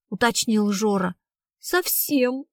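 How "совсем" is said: higher, small tearful voice; sobbing. Acted. Girl confirming her boyfriend's death, sobbing. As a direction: whimper the word, lightly acted. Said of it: "снова всхлипнула Карина".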